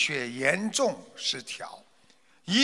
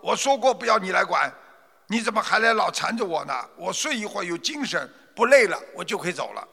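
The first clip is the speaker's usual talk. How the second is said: impatient; 4 semitones higher, faster than usual. Acted. Exhausted merchant impatiently pushes off the helper. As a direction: wave him away, rushing the words. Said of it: "商人不耐烦地说".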